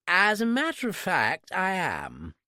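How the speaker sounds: high-class English, slow drawn-out opening; exaggerated British accent. A narrator's reading. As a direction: lay on the posh British accent thick. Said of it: "British accent, I exaggerated it".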